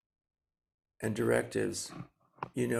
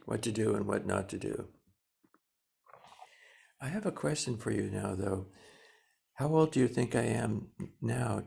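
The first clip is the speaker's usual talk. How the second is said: gentle thanks to inner voices. Pretend. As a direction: thank them patiently. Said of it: "you say to your, uh, critics".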